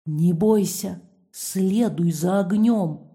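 low slow mysterious voice; таинственно, низко и медленно. Acted. Mysterious voice in darkness. (таинственный низкий голос во тьме)

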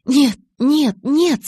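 high, loud rising protest. Acted. Bella protests against Edward's kisses, loud high refusal. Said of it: "запротестовала я".

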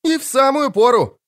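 a bard hailing his friend with flourish; Dandelion's shout. A narrator's reading. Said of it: "крикнул подходящий ... Лютик". (театральный возглас, гораздо выше)

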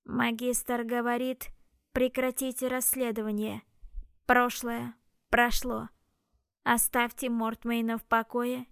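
slow, grating machine threat; a hint of a grinding machine, slow; metallic robot voice. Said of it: "как скрежет неисправной машины".

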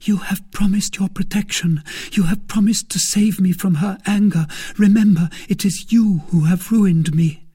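high, loud pleading outburst; frightened maid's accusing cry; desperate cry. A narrator's reading. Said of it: "she cried".

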